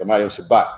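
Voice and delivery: "Amadim Shabbat" run together as one loud, quick phrase; fast casual pronunciation. Shown as a demonstration. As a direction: say "Amadim Shabbat" quickly, words slurred into each other. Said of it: "we say it fast".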